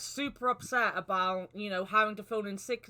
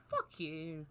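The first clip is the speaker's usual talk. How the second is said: low, much softer curse; muttered under breath; 7 semitones lower, 11 dB quieter than usual. Retold or imitated. To the boss, a quiet muttered curse. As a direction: swear it quietly to yourself. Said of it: "I was like".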